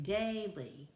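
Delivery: "daily" with DAI stressed; stress on first syllable. Shown as a demonstration. Teacher shows a trochaic foot, "daily" stressed on DAI. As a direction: hit the start of "daily", let "ly" drop. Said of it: "the first syllable is accented".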